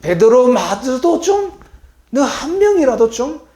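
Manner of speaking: high, loud, slow plea to the sleeping disciples; aggrieved master asking for one hour; pleading Jesus. Acted. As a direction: beg them to stay with you.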